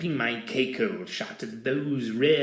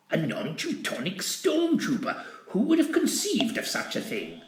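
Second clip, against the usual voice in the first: amused disbelief; 6 semitones higher than usual. A narrator's reading.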